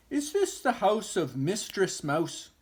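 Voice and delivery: small, high, hopeful question; a little mouse asking shyly; timid mouse voice. Acted. Mister Mouse asks.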